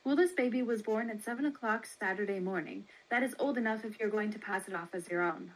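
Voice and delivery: lightly voiced brisk baby seller, quick; a hint of a brisk matron, fast. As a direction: rattle it off like a businesslike matron.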